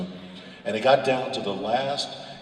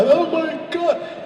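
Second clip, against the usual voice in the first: mock wailing; 8 dB louder, much slower than usual. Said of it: "but I started wailing".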